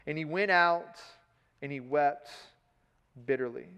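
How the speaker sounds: measured, even Bible reading to the congregation; scripture reading. Acted. Reads the scripture passage aloud.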